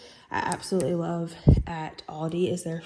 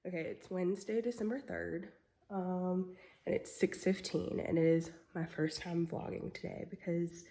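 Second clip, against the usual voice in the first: nasal, congested voice; blocked nose; 7 dB quieter than usual. Real, not acted. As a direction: speak with a stuffy nose from a cold. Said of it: "I'm very, like, nasally".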